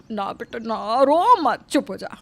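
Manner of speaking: mother-in-law calming her crying daughter-in-law; soothing. Acted. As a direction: hush her gently.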